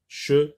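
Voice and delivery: "cheminée" in three syllables with clear pauses. Shown as a demonstration. Teacher counting out syllables for pupils, "cheminée" syllable by syllable. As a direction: break "cheminée" into three separate beats. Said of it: "dans la troisième syllabe".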